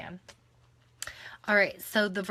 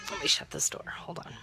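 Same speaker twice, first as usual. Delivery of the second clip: whisper. Real, not acted. Toddler nearby, aside while recording.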